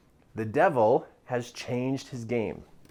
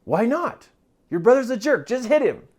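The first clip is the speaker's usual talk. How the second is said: little devil voice; 8 semitones higher, 5 dB louder than usual. Retold or imitated. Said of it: "the little voice says".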